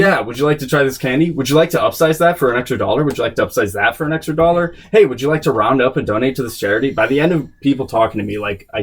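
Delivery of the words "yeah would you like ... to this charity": rapid scripted upsell patter; upselling cashier. Retold or imitated. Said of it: "the Regal script was in depth".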